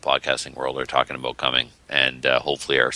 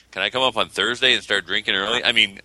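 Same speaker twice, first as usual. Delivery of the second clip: imitating a friend; 4 semitones higher than usual. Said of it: "the first words in his post were".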